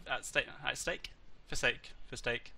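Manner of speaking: slow, tired stumbling over words; tongue-tied from fatigue. Real, not acted. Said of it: "I'm really tired".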